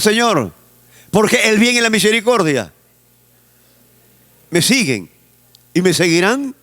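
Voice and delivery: bold, grateful preaching prayer; confident thankful prayer. Acted. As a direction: pray like you already have the blessing. The right way to pray, voiced loud.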